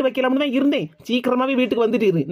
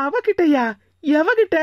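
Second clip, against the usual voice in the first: startled question; 4 semitones higher, slower than usual. Acted. Wife startled, asking her husband who he means. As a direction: catch it with sudden alarm.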